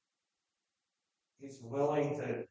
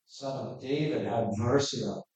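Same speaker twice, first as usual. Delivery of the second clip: a little louder, pleading call; stepped-up cry; 5 dB louder than usual. Retold or imitated. Blind man calling out harder to Jesus, mildly louder. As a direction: push the plea harder. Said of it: "he stepped it up".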